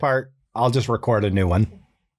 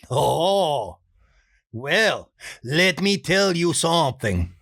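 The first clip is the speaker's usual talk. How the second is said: put-on higher, sly confiding Spanish-accented voice; Juan voice; 3 semitones higher, slower than usual. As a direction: lean in to share a secret. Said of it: "Juan's next line".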